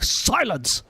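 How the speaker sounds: mock commanding judge calling for silence; put-on voice of authority; Nouvelette. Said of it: "Nouvelette's gonna be like".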